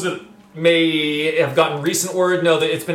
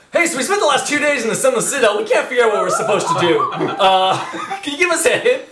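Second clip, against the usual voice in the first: sheepish asking voice; 6 semitones higher, faster than usual. Acted. GM voicing players asking hint.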